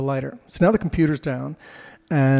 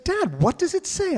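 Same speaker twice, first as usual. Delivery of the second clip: put-on high curious kid voice; imitating the kids. Dad mimicking his kids asking about the sign, high kid voice. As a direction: pipe up like a curious child.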